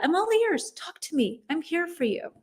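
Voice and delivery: tender, caring I'm all ears; gentle reassurance. Shown as a demonstration. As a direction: say it softly and kindly, like you mean it. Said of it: "great ones".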